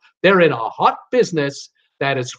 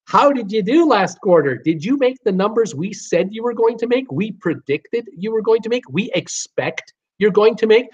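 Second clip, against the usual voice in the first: higher, pointed grilling of a company boss; mock Wall Street analyst; 4 semitones higher than usual. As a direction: play a demanding analyst asking about numbers. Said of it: "Wall Street analysts want to know".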